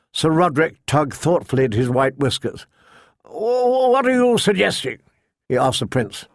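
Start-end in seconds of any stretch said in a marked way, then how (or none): 3.2-5.0 high, startled stammer. Acted. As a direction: sputter in shock. Old knight startled.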